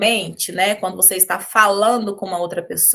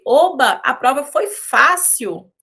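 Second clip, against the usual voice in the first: a bright, happy cheer, slowing on fácil; pleased exclamation; 3 semitones higher, 4 dB louder, slower than usual. Shown as a demonstration. Teacher demonstrating joy over an easy test, excited. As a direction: sound thrilled the test was easy. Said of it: "você tá muito satisfeita".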